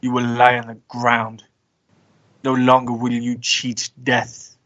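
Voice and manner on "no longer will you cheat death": ordinary talk, nothing marked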